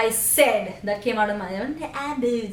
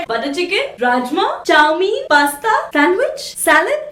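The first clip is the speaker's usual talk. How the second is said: rattling off dishes, higher and louder; excited food list; 4 semitones higher, 4 dB louder, faster than usual. Real, not acted. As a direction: list each dish with growing glee. Excitedly listing foods.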